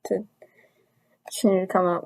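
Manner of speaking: talking through a numb mouth after a tooth pulled; words slurred by a numb face. Real, not acted. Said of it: "I'm talking kinda weird".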